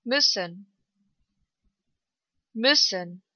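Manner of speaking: short ü in "Müssen". Shown as a demonstration. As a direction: keep the ü of "Müssen" brief. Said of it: "Kurz ausgesprochen".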